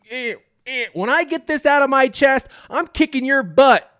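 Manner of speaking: high, loud, straining furious threat; mad brother. Retold or imitated. Older brother threatening little brother while pulling out dart, furious. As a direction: snarl a threat through the pain. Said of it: "He was so mad".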